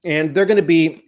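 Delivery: talking round a piece of ice; words blurred by ice in mouth; mouth full. Real, not acted. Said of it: "a piece of ice got in my mouth".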